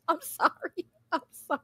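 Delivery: soft, embarrassed sorry; sheepish apology. Real, not acted. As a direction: back down quietly, a bit ashamed. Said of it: "I'm nervous".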